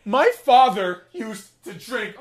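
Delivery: high, loud, slow hammed-up girl voice; mock tearful girl. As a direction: overplay a wounded girl confessing. Voicing the girl's sad confession.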